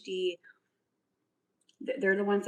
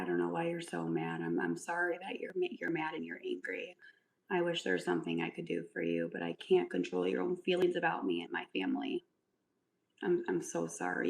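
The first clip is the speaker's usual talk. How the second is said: mock sympathy. Real, not acted. Mock apology to angry commenter.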